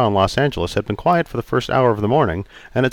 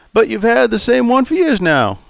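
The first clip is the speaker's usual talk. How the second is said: put-on raised, jovial old customer; 13 semitones higher, 3 dB louder than usual. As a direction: play Charlie, teasing.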